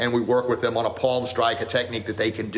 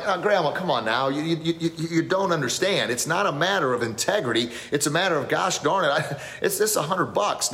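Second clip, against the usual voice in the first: higher whiny pleading to grandma, half-mocking himself; whining plea; 6 semitones higher than usual. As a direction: replay your younger self begging grandma. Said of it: "I pleaded and whined again".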